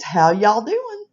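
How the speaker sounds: high, slow "How y'all doing?"; Southern greeting. Shown as a demonstration. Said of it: "If it's more than one person".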